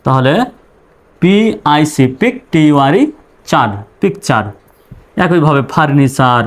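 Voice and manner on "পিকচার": two syllables, পিক then চার; correct pronunciation demo. Shown as a demonstration. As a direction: say পিকচার with the ending as চার. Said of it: "চার উচ্চারণ হবে".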